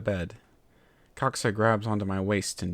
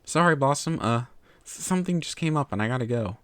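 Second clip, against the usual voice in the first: hurried excuse; 4 semitones higher than usual. Acted. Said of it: "His muted voice".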